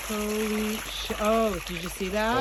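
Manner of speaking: stunned holy sh-; astonished. Real, not acted. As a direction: caught off guard by the gush. Surprised by gushing water.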